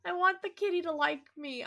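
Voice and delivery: laughing. Real, not acted. Laughing at failed attempt.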